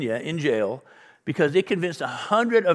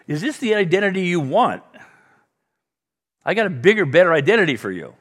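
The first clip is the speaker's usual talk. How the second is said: a raised, bright "I got a bigger, better identity"; eager invitation; 5 semitones higher, 5 dB louder than usual. Retold or imitated. Jesus offering Peter a bigger identity, eager and raised. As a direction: urge him toward something more.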